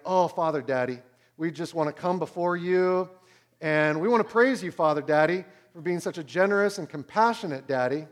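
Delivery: kids hammed up as formal pray-ers; mock pious prayer. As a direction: parody a wordy, ceremonious prayer. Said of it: "how weird our prayers sound".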